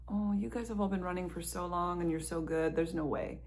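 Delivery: hushed, unvoiced self-doubt; a hushed nervous aside to yourself; whispered doubt. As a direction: whisper it as a private worry. Hesitant thought voiced to self.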